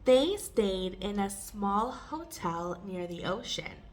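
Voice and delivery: measured read-aloud for repetition; careful teacher's model reading. Shown as a demonstration. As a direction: read phrase by phrase, leaving gaps. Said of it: "read it more slowly and take pauses".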